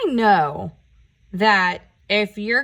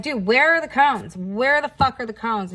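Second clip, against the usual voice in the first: angry yelling; 4 semitones higher than usual. Retold or imitated. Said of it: "I'm, like, yelling at this guy".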